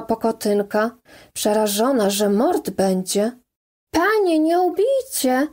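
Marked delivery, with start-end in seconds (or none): 3.9-5.5 high, frightened plea, pitched up; terrified cry. A narrator's reading. Pokotynka begs her master not to kill: frightened high cry. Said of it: "krzyknęła".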